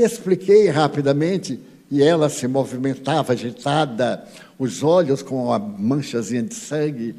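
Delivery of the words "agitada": ordinary delivery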